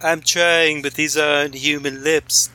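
strained put-on voice; straining to do the voice; bad impression. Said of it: "His cruel mockery of the human form".

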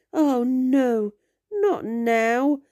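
rising alarm, cut short mid-word; agitated. Acted. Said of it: "the man seemed agitated".

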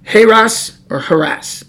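Heras with a long A, then Haras with an open ah; comparing two pronunciations. Shown as a demonstration. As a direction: set Heras against Haras. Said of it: "I don't know if it's a ha".

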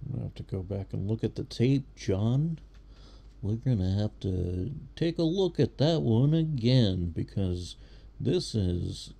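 hyped-up play-by-play announcer; sports commentator voice. Shown as a demonstration. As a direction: call it like a TV sportscaster. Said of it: "That was my sports commentator voice".

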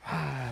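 soft, drawn-out exhale; long quiet "ah" sigh; bored sigh. Retold or imitated. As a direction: imitate a fed-up sigh in church. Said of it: "making faces".

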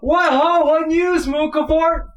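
high, loud theatrical hailing; hearty hail. Acted. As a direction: call out loudly like greeting another boat. Game master voices a hailing character.

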